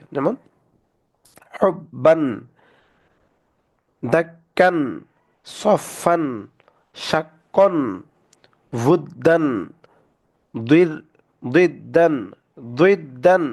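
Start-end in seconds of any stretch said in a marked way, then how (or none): 1.6-13.4 isolated words with doubled consonants held, as in "দাক্কান", second syllable ringing; tashdid pronunciation demo. Shown as a demonstration. Teacher modelling words for students, doubled letters held firmly as in "দুইদ্দান". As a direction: recite each word alone, leaning on the double letter, as in "হুব্বান". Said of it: "উচ্চারণগুলো পড়ে দিচ্ছি".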